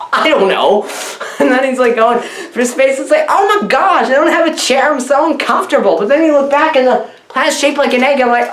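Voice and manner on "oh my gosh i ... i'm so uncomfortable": higher-pitched hammed-up fretting; mock distress. Howard flying through space without a chair, mock distressed. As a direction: play a put-upon duck fussing in distress.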